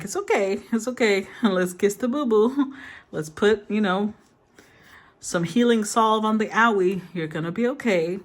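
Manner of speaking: lightly voiced cooing comfort, like to a toddler; a hint of kissing a child's boo-boo better; soothing baby talk. Spirit guides comforting a hurt inner child, gentle mock cooing.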